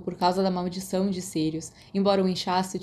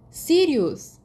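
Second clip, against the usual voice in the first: high, louder alarmed call of a name; shocked cry; 8 semitones higher, 5 dB louder than usual. Acted. James shocked at the fight.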